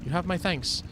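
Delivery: high-pitched game character, effusively grateful. Acted. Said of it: "the attempt at the higher pitched voice".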